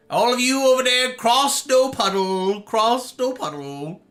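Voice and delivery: mock solemn. Mock solemn phrase repeated.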